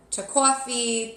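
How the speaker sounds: "coffee" in a Jersey accent. Real, not acted. Tarot reader recalling solo outings, Jersey accent. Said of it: "love how the way I say coffee".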